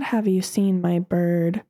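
slow, lightly voiced dim lady; mock clueless neighbor. Neighbor asking about her lost bird, slow and clueless. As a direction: ask it slowly, dim and oblivious.

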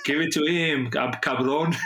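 put-on jokey Spanish accent through laughter. Co-host joining in the footballer impression, playful Spanish accent. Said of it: "in the accent".

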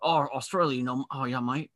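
lightly put-on Australian accent; attempted Australian accent. Improvising Jason Statham's movie character, mock Australian accent. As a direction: have a loose go at sounding Australian. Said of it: "right, gruff and Australian".

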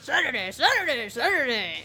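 monster truck ad. Pretend. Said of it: "like those monster truck rally guys".

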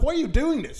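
hammed-up wounded question; retold protest. Retold plea to police lady.

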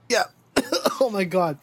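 choking on sour candy, coughing; coughing after swallowing wrong; coughing up water. Real, not acted. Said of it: "I went down the wrong pipe".

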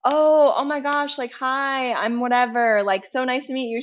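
put-on old neighbor warming up on learning she's new; suddenly friendly. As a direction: switch from grump to delighted neighbor. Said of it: "And he was like".

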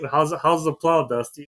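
lightly voiced radio host asking Dusty; a hint of a radio ad read. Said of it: "you heard Dusty on the radio".

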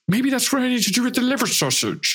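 excited idea. Acted. Excited realization, pitch up.

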